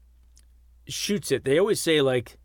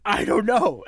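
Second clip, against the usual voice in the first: higher, lightly voiced tearful quote; mock tearful; 5 semitones higher than usual. Film fan acting out the crying heroine, mock tearful. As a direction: imitate someone crying, pitched up. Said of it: "And she's crying at this point".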